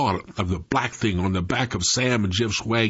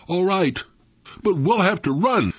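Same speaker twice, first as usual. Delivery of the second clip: half-hearted; 8 semitones higher than usual. A narrator's reading. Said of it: "answered half-heartedly".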